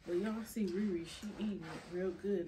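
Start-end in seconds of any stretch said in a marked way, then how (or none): 1.1-2.5 whisper. Real, not acted. Whispered aside to viewers.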